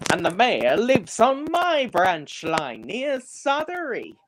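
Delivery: engine character voice. Acted.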